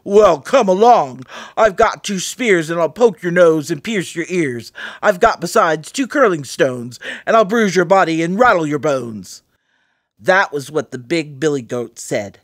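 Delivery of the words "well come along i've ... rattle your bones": hoarse voice. Acted. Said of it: "an ugly hoarse voice of his own".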